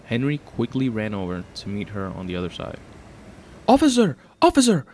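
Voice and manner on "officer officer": loud, high-pitched shout for police; yelling. A narrator's reading. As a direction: yell out urgently for the officer. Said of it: "the attendant yells".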